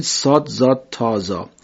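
صاد، زاد، تا، زا recited one by one, each letter named slowly; name each Arabic letter clearly; emphatic Arabic letters. Shown as a demonstration. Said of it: "چهار حرف اول رو توجه کنید".

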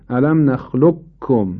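نخلقکم with the qaf wholly merged into a doubled kaf; full assimilation. Shown as a demonstration. Teacher demonstrating complete idgham, نخلقکم said with doubled k. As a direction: say نخلقکم slowly as nakhluk-kum, no trace of qaf. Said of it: "ادغام تامش این است قاف به طور کل از بین میره".

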